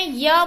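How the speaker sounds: "य" like the start of university; "य" as a y glide; y sound. Shown as a demonstration. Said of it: "क्या बोलते हैं". ("य" ध्वनि जैसे यूनिवर्सिटी में)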